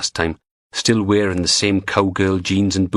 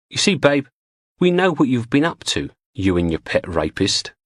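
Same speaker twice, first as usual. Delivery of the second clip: a higher, sing-song woman's menace; taunting gangster woman; 5 semitones higher than usual. Acted. Sweet-sounding threat. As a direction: Julie taunting the tied-up superintendent, in a higher sneering woman's voice. Julie voiced taunting captive.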